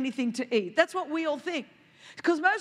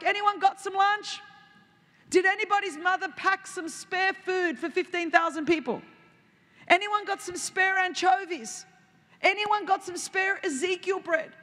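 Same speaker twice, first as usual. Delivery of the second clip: calling out; 5 semitones higher than usual. Retold or imitated. Disciples calling to the crowd for food, in a hammed-up begging call.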